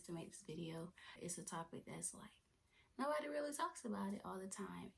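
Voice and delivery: nervous hushed whisper; breathy secret-telling. Real, not acted. Nervous girl whispering to her viewers.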